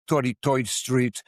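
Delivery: lightly imitated old New York accent; a playful touch of New York accent. Shown as a demonstration. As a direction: say it like an old-time New Yorker, "toity-toid". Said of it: "different accents of New Yorkers".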